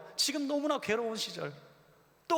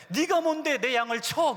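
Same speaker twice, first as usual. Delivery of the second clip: loud, high, cutting challenge on 네가; stern rebuke; 6 semitones higher, 7 dB louder than usual. Retold or imitated. God scolding the preacher for striking His sheep, loud stern rebuke. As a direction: lean hard on 네가 and demand an answer. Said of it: "그러시더라고요".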